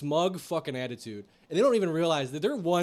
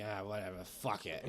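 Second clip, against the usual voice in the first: retold indifference; 5 semitones lower, 8 dB quieter than usual. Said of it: "she's just like".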